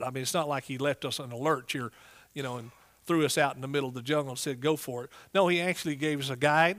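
ordinary talk, nothing marked

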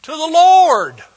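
huge high holler, drawn out slow; football-fan shout. Shown as a demonstration. Preacher cheering to the Lord in church, huge shout. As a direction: yell it like the team just won. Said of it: "That's for football".

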